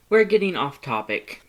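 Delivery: high, loud proclamation; declaring Papyrus. Acted. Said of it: "he declared".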